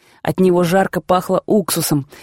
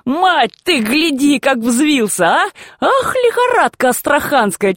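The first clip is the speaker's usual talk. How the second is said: put-on higher, slowed exclamations of an old man; hoarse excited shout; 6 semitones higher, slower than usual. A narrator's reading. Grandfather to grandmother about the shouting boy, excited and higher. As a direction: rasp it out, amused and worked up. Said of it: "хрипел".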